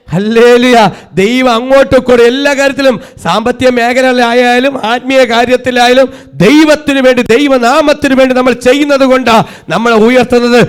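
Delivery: forceful, sustained pulpit delivery; impassioned sermon swelling to stretched-out peaks; full-force preaching. Real, not acted. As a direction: drive each phrase home to the congregation.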